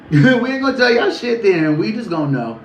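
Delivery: sassy mock retort. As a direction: toss it off like a smug secret-keeper. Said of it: "So they said".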